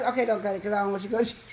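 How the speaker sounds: fast, rushed take-back; rushed backpedal. Retold or imitated. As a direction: blurt it out quickly. Sudden reversal, stop him.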